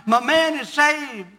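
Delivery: hollering praise, lifted high; joyful shouting. Retold or imitated. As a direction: shout it like a rejoicing wife.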